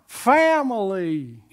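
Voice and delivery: put-on slow, drawn-out Louisiana accent on "Family"; a coach's borrowed Louisiana greeting, slow and drawn out; mock Louisiana drawl. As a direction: stretch "Family" out like a Louisiana local. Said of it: "hanging around all these people from Louisiana".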